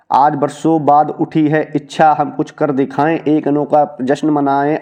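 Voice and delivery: measured, slow recital of verse; slow poem reading. Acted. Teacher slowly reciting a poem passage to students. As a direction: read the poem out slowly, savouring each line.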